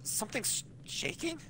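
startled, alarmed character reading; a voiced character reacting to shaking; game character voice. Character startled as the elevator shakes, alarmed.

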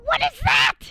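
high, loud startled cry; what is that, squealed high; shocked shriek. Real, not acted. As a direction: yelp it out in disbelief. Shocked at enemy weapon.

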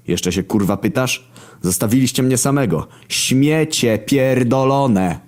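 angry rise to slow, high, hammered syllables; furious, syllable-punched. A narrator's reading. Narrator beating War for abandoning him, furious. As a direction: build in outrage, hammering the last words slowly. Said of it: "akcentując każdą z sylab solidnym pierdolnięciem".

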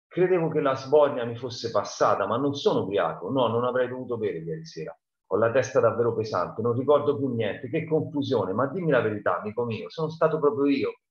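a hint of a bewildered, hungover man; confused drunk Muff. Muff Potter begging his friend for the truth, lightly voiced and dazed.

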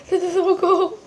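laughing through the cold. Real, not acted. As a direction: giggle through the sting. Holding snow, laughs.

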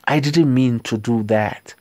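whispered, no voice at all; hushed whispered apology. Shown as a demonstration. Teacher repeats phrase in whisper.

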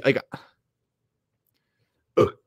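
small burp then groan. Real, not acted. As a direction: let out a burp. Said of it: "I'm sorry, I burped".

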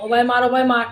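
mild shouted Sylheti call; kids calling out. Retold or imitated. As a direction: call to a teammate across the field. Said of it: "আমরার বাচ্চারা ডাইরা কইব".

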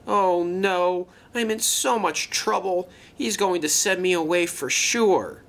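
high-pitched worried lament; anxious dread. Acted. Luke fearing he will be sent away, anxiously lamenting. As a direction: fret aloud, sure of punishment. Dreading punishment after the crash.

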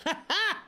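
quick high laugh; short laugh. Real, not acted. Laughs during play.

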